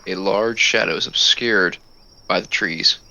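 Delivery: measured, suspenseful narration with pauses; game master's scene setting. A narrator's reading. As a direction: set the night scene, pausing between phrases. Game master sets the night scene.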